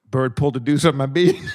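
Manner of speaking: lightly imitated surfer, fighting laughter; low-pitched surfer quote, barely keeping composure; mellow surfer dude. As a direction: play the surfer while holding back a laugh. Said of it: "He's the most mellow surfer dude".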